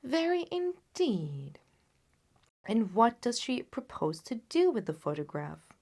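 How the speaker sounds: a hint of a cool Holmes; lightly voiced Holmes. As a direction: toy with the problem, unhurried. Holmes answers the king.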